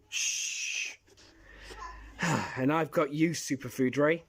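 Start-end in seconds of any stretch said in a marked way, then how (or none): 0.1-1.0 hushing. Acted. Hushing the others on a sneak.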